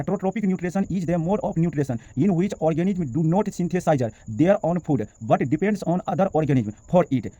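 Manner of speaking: very slow, careful English reading; slow dictation. Shown as a demonstration. Teacher dictating the English definition slowly to the class. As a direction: read each word slowly so it can be copied. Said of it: "एक बार और पढ़ लेते हैं".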